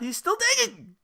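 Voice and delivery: high incredulous squeal; mock disbelief. Reacting to the streamer in high mock disbelief. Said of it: "I'm like".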